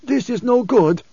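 put-on high, strained old preacher's voice. Preacher to Leto with a cutting gesture, high and emphatic. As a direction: raise the voice well above narration for the preacher.

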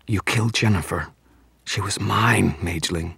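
a touch of seductive menace; sultry vampire. Acted. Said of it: "its voice was exactly the same, sultry and feminine".

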